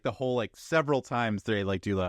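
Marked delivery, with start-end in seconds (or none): none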